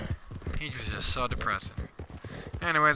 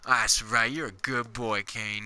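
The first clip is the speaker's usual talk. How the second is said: praising a dog; 4 semitones lower, 3 dB quieter than usual. Real, not acted.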